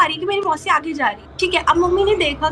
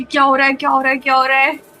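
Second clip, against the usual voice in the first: retold shivering panic; 5 dB louder, faster than usual. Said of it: "बिल्कुल ऐसे शिवर करने लगी".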